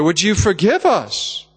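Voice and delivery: slow, pleading question; retold pleading. Parents begging their daughter's forgiveness, pleading slowly. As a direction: draw it out as an earnest plea. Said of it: "pleaded with her".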